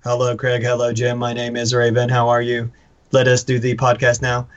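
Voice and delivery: monotone, every word weighted the same; robotic flat delivery; flat, no emphasis. Shown as a demonstration. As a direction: read it without stressing any word. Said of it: "we don't just say".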